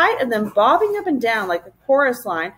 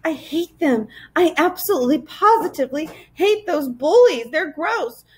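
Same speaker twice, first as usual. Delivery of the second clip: put-on higher-pitched angry little girl; through clenched teeth; 6 semitones higher than usual. A narrator's reading. Girl fed up with the bullies, through clenched teeth. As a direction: force it out through gritted teeth. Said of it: "said through her clenched teeth".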